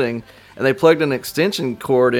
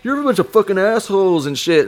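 mock angry kid; 8 semitones higher than usual. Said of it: "they're like".

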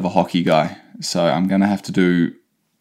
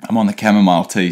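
while sipping a drink; faster than usual. Real, not acted. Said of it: "Sorry if you can hear me drinking".

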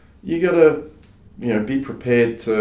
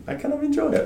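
laughing; faster than usual. Real, not acted. Laughing while admitting enjoyment.

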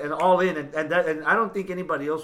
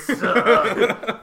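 exaggerated cartoon intonation; 6 semitones higher, 4 dB louder than usual. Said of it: "Why are you talking like that".

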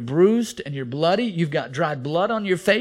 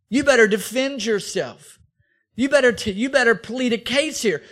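threatening Pilate; 6 semitones higher, 5 dB louder than usual. Acted. Pilate warns Jesus to defend himself, menacing and loud. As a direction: lean in and threaten him with death.

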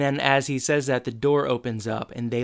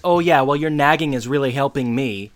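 sarcastic snap; 4 dB louder than usual. Retold or imitated. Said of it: "And he's like".

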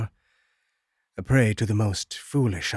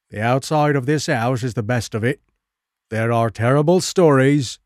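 louder, gruff officer's warning; a stern constable telling him off; police officer; 3 semitones higher, 5 dB louder than usual. Acted. Police officer warns about the house.

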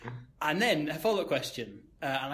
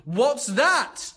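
high, loud mock drunk woman; high loud imitation of a drunk woman; drunk woman asking; 10 semitones higher, 9 dB louder than usual. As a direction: squeak it out like a tipsy lady pointing.

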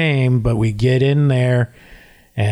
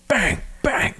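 two short, softer high bangs; imitated banging; 10 semitones higher, 5 dB quieter than usual. Player retelling blows on the doors, imitated banging. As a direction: voice the bangs like sound effects.

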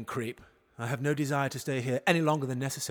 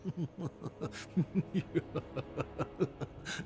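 sinister chuckle; 10 dB quieter than usual. Acted. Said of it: "I really need to work on my sinister chuckle".

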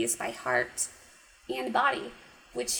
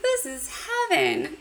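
wrong line, high; 10 semitones higher than usual. Retold or imitated. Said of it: "Or sorry".

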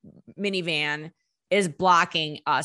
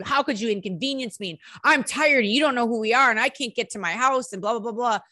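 mildly indignant, pitched-up rant; mad and angry; 4 semitones higher than usual. Retold or imitated. Retelling the band's first reaction to the blocker, mildly angry. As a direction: rattle off the grievance in a higher voice. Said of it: "we're mad and we're angry".

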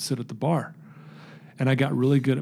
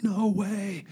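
high-pitched retold amazement; imitating excited girl; 7 semitones higher than usual. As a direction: voice a little girl freaking out, pitched way up. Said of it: "she's freaking out".

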